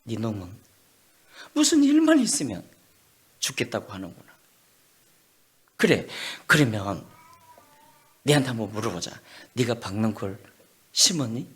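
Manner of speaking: a calm father questioning; God's stern reply. Acted. God calmly rebuking angry Jonah. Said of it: "하나님이 말씀하시네".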